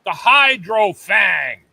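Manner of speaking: slow, loud product reveal; announcer hype. Real, not acted. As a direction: hype it like a teaser. Teasing upcoming gadget.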